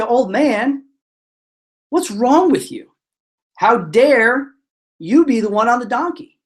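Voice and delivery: hammed-up outrage with punched words; mock furious. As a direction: tell off indignantly, word by word. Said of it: "they get really furious with the old man".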